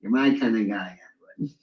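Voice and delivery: deep guttural bass, low. Retold or imitated. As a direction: growl it low in the throat. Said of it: "Guttural bass humor".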